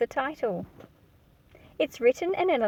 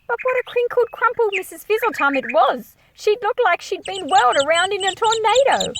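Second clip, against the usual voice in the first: much higher and louder, full of wonder; lively storytelling; 9 semitones higher, 4 dB louder than usual. A narrator's reading. Narrator describing Missus Fizzletum on a park bench. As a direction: paint the crumpled old lady with delight.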